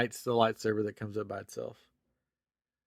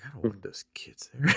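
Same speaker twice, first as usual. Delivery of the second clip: laughing whisper. Retold or imitated. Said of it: "I was like".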